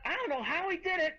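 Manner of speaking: ordinary delivery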